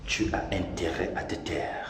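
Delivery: menacing whisper; whispered threat. Acted. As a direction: hiss the warning quietly.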